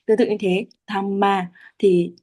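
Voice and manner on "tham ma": "tham ma" slowly, both syllables held; two long syllables. Shown as a demonstration. Teacher demonstrating two long sounds, long syllables. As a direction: draw out both halves of "tham ma". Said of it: "cả hai từ này đều là âm dài".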